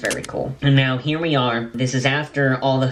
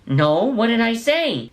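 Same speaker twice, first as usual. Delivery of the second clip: much higher and slow, puzzled; mock bewildered mom, high; startled mom; 10 semitones higher than usual. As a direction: ask in confused alarm. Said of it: "Mom's like".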